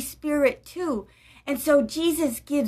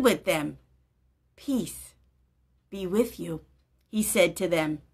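put-on gentle storybook narration for children; story reading. A narrator's reading. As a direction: read it like a children's Bible story. Reads Bible story aloud.

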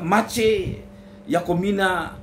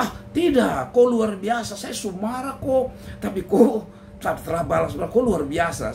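insisting husband; 3 semitones higher than usual. Acted. Tinus insists on praise.

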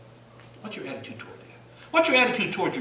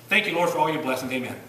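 rushed prayer; 2 semitones lower, 4 dB louder than usual. Retold or imitated. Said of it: "it's kinda like one of these things".

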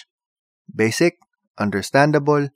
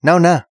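"Now na." pushed louder and higher; overemphasized now na; 5 semitones higher, 4 dB louder than usual. Shown as a demonstration. Hurrying someone out the door, an insistent "Now na.". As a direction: lean hard on "Now na.". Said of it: "we overemphasize by saying".

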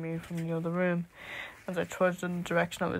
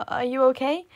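put-on high, louder worried boy; panicked boy; 7 semitones higher, 10 dB louder than usual. A narrator's reading. Boy rushes to the fallen narrator, high alarmed voice. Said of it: "came sprinting over in a panic".

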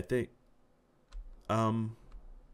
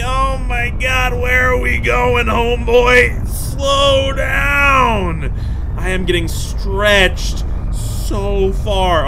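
louder, higher yelling, then drawn out slowly; panicked shout; 8 semitones higher, 6 dB louder, much slower than usual. Real, not acted. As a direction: cry out to slow down. Pulled along at speed.

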